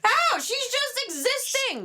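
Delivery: high, slow disbelief; how can you say that; incredulous. Real, not acted. Defending a singer.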